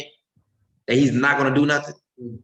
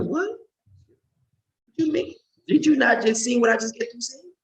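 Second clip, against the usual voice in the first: high incredulous squeal, much higher; retold disbelief; 10 semitones higher, slower than usual. Answering the father who asks why he's angry, incredulous. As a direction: stretch out the shock as if it's obvious. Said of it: "I'm like".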